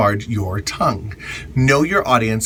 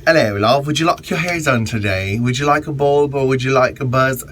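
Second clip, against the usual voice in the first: mock British accent. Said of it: "we would always pretend to be British".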